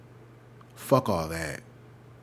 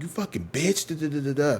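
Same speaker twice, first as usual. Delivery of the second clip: retold cursing out; 4 semitones higher than usual. Clerk cursing at the woman, mild mock rant. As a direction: imitate a clerk's rant trailing into filler. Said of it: "calling her a bitch and everything".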